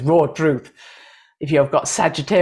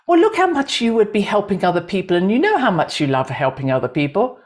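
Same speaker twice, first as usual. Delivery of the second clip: higher, quick coaxing start, settling down; persuading left brain; 3 semitones higher, faster than usual. Acted. Left brain arguing with the heart, mildly coaxing. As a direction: lightly play the voice selling the idea. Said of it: "your left brain comes up with all the reasons".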